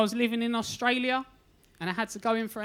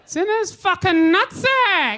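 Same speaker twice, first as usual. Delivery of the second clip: loud high yell across the room; shout; 8 semitones higher, 10 dB louder, slower than usual. Retold or imitated. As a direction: bellow it to Steve in the back. Receptionist yells across room.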